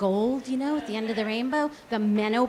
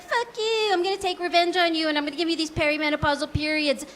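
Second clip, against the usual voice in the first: a higher, mock-spiteful uterus voice; vengeful uterus; 3 semitones higher than usual. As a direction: give the uterus a hint of petty revenge. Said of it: "my uterus is like".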